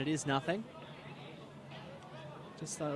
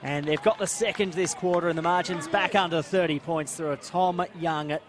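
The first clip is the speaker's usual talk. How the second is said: animated football goal call; live play-by-play; 2 semitones higher, 5 dB louder than usual. Real, not acted. Commentator telling viewers of a goal, live play-by-play. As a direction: call the goal with lively, steady drive.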